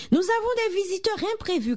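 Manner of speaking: high, hurried announcement; crying out, flustered. A narrator's reading. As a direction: panicky mother, fast and high. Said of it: "cria-t-elle".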